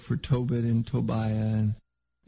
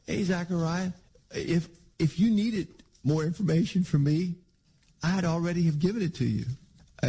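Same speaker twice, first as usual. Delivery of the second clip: raised pitch, indignant rebuke; upset archangel; 3 semitones higher than usual. Retold or imitated. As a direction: scold him like an offended archangel. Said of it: "Gabriel just gets really upset".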